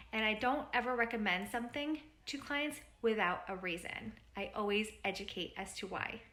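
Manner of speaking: chewing while talking; mouth full. Real, not acted. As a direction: talk through a mouthful of food. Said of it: "Sorry, I'm chewing on".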